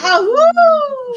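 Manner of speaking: high playful wolf howl; howling like a wolf pup. Pretend. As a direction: yip it out like a young wolf. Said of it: "a whole howling stream".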